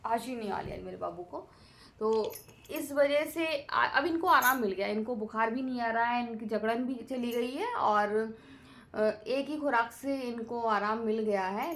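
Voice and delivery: usual speaking voice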